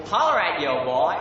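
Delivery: attempted American slang accent. Shown as a demonstration. Brit unsure how to do this one, American accent. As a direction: have a go at American street slang. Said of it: "my best American accent".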